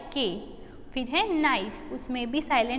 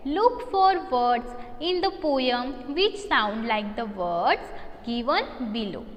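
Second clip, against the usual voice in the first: slow reading aloud; much slower than usual. Shown as a demonstration. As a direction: read the question out very slowly and clearly. Teacher reads question aloud.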